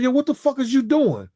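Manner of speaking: high-pitched disbelief at the seat; retold outrage. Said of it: "I'm like".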